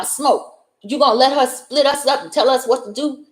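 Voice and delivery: a hint of a desperate man begging his friend; pleading Cornbread.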